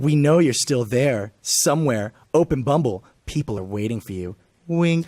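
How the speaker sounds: slow, lightly put-on app voice; app's voice. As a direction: read it out slowly as a knowing app. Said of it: "So read it back in".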